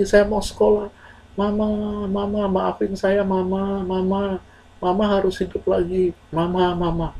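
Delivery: acted weeping plea. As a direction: beg a dead mother for forgiveness. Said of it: "Kemudian dia menangis". (menangis memohon dengan suara lirih)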